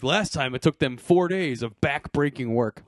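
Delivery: imitating a narrator voiceover; droning documentary narrator; lazy voiceover. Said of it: "That's lazy voiceover".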